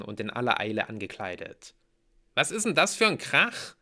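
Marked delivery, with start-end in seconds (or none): 2.3-3.8 high, loud, irritated question; grumpy Mallory. A narrator's reading. Mallory asks sleepily dressed hero about the racket, crossly. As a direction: demand it crossly in a raised voice. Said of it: "Mallory sah mich übellaunig an".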